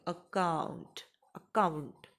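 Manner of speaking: अकाउंट said in full, every sound sounded out; careful teacher's demo of अकाउंट; fully pronounced. Shown as a demonstration. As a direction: draw out अकाउंट so each sound is heard. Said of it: "इसको मैं पूरा pronounce कर रही हूँ".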